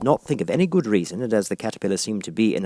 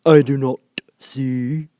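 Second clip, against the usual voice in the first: slow breathy whisper; whispered caterpillar; 5 semitones higher, 6 dB louder, much slower than usual. A narrator's reading. Caterpillar answers Alice in a slow whisper. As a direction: hiss it out slowly, unvoiced. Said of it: "said the caterpillar".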